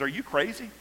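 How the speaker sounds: high, loud, incredulous outburst; a widow at the end of her rope, voice up high; the widow scolds Elijah, high and frantic; desperate widow. Retold or imitated. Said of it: "this is essentially what she's saying".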